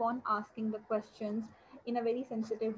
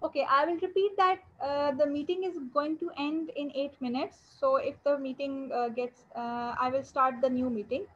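to someone hard of hearing. Real, not acted. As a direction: raise your voice for a listener who can't hear. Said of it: "Could you speak louder".

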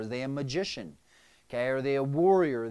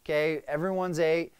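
louder, higher, pushy; impatient command voice, raised; warrior mode; 6 semitones higher, 8 dB louder than usual. Retold or imitated. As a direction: bulldoze everyone to get moving. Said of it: "So I'm like".

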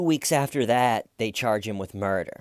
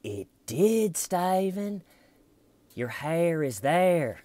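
high, slow, deliberate; insistent interrogator; 6 semitones higher, slower than usual. Retold or imitated. Red Shirt insisting the hair is there, slow and high. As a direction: spell out each word so he can't dodge it.

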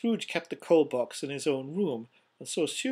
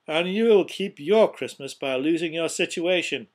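loud, higher angry warning; threatening; 4 semitones higher, 9 dB louder than usual. A narrator's reading. Scrooge threatens his applauding clerk, loud and angry. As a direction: warn him off forcefully.

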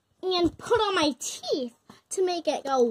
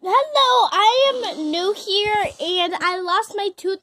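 loud silly greeting; 3 semitones higher, 10 dB louder than usual. Pretend. Kid introduces fake new character.

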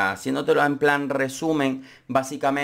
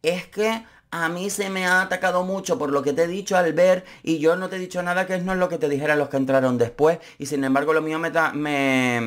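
mock complaint. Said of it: "dice ella".

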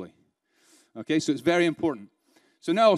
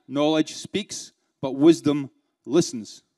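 very slow, stressing knowledge and wisdom; slower repeat; much slower than usual. Shown as a demonstration. Trainer repeats the quote for the audience, very slow and deliberate. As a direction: spell out the proverb again, word by word. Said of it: "Do you understand?".

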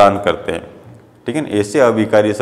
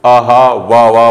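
delighted; 6 dB louder, slower than usual. Shown as a demonstration. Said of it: "मन के भाव हर्ष बोधक".

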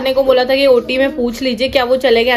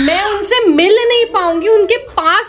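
higher, pleading with a touch of laughter; upset pleading; 6 semitones higher than usual. Retold or imitated. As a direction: press the staff to understand her plight. Wife pleads with hospital staff. (ऊँची, घबराई हुई गुहार)

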